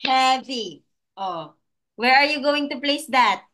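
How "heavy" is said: "Heavy" split into two beats; syllable by syllable. Shown as a demonstration. Teacher helping pupil count claps, "Heavy" syllable by syllable. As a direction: sound out "Heavy" one syllable per clap. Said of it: "how many claps is that".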